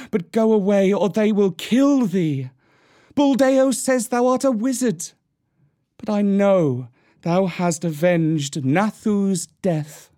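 anguished cry. A narrator's reading. Mesua pleads with her son to go away, anguished cry. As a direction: cry out high, urgent and pleading. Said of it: "ran across to the herd and cried".

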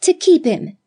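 "To keep him" flung out high and loud, stress on keep; exclaimed together. A narrator's reading. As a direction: echo it as a high eager exclamation. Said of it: "they all three exclaimed simultaneously".

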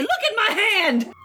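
laughing mock exclaim. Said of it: "go around and say".

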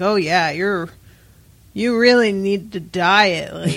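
sarcastic. Retold or imitated. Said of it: "I'm like".

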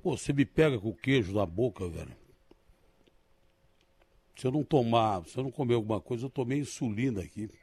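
talking while chewing; words around a bite of food; mouth full. Real, not acted. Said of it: "eu vou falar com a boca cheia".

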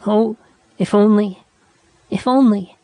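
high, breaking with tears; tearful lament. A narrator's reading. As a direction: wail it through tears. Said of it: "Nada burst into tears".

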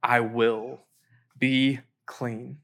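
low, measured assurance; calm pronouncement. Acted. Jesus answering the leper as he touches him, calm pronouncement. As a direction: say it gently, with a pause before the last words.

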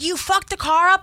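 sharp, high scolding; angry boss. Retold or imitated. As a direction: accuse her of wrecking it. Boss scolds her over car.

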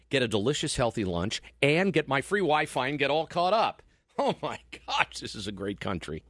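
friendly sponsor read, upbeat; radio ad read. Acted. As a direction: pitch the store like a live ad.

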